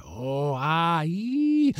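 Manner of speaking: vowels climbing from moan to high squeal; eerie wail sliding up and up; rising ghostly wail. A narrator's reading. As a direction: swell upward into a piercing "ee". Voices' chant swells into wail.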